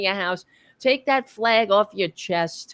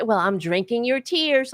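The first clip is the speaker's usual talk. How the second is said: mocking gloater; 6 semitones higher than usual. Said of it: "and then they say".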